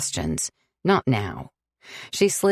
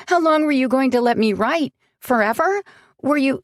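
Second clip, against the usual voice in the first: hurt and accusing, climbing higher and louder; rising anger; 7 semitones higher, 3 dB louder than usual. Acted. Sam confronting Alex over the hidden letters, building anger. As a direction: let the betrayal build to near shouting.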